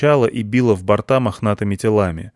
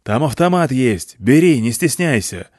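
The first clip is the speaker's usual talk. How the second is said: generous offer; 3 semitones higher than usual. A narrator's reading. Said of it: "щедро предложил он".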